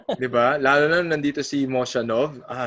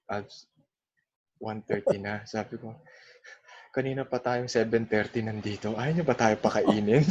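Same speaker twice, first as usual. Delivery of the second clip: low, hushed hungry grumble; hushed complaint; 4 semitones lower, 6 dB quieter than usual. Retold or imitated. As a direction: mutter the complaint under your breath.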